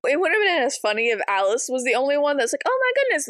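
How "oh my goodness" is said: mock amazement. Alice voiced amazed.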